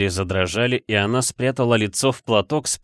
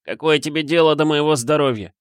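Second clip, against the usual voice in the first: indifferent; 7 semitones higher, 3 dB louder than usual. A narrator's reading. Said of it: "Безразлично отозвался он".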